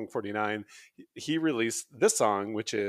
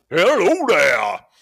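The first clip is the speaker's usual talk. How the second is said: big, hearty, boisterous, very loud voice; 7 semitones higher, 11 dB louder than usual. Showing a funny voice idea for a greeting: boisterous voice. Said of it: "a real boisterous voice and just go".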